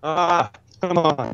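broken robotic mic sound; glitchy robot-like headset audio. Real, not acted. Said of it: "Brendan the Robot".

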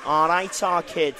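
nasal Mancunian greeting; Manchester accent. Shown as a demonstration. Pub owner setting a phrase to try, Manchester accent. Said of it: "if you're going Manchester".

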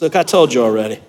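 low, mobster-boss impression; deep mafia don, laying down the law; Godfather. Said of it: "he gets real Godfather on him".

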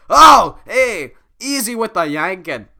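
pained yelp. Acted. Shrek yelps at the pull.

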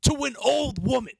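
high, building yell, hitting each curse; retold furious screaming. Berating the man who humiliated a woman, retold furious screaming. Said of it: "That's why I kept screaming".

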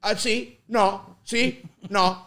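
awkward phone Italian. Retold or imitated. Kid on phone to relatives, awkward Italian replies. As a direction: get through the call in halting basic Italian. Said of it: "I hated speaking Italian".

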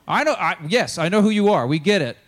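high, loud, impatient telling-off; exasperated scolding. Acted. Peter telling Jesus to stop, exasperated.

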